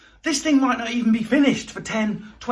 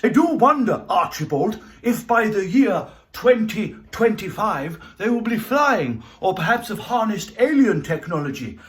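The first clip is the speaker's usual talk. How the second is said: lightly posh Victorian gentleman; a hint of a wondering Victorian toff; Victorian gent voice; 3 semitones higher, 4 dB louder than usual. Time traveller musing to Archibald, in a mild Victorian posh voice. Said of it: "in your Victorian hat".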